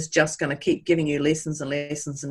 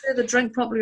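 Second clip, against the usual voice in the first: higher-pitched self-berating outburst; playful, raised-pitch frustration at yourself; mock exasperation; 6 semitones higher, faster than usual. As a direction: act out despair over a botched drink. Retold self-beating over spilt drink.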